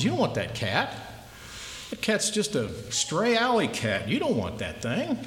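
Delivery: sly seller playing it casual; shop owner. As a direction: wave off the buyer, talk the cat down. Shop owner brushing off buyer.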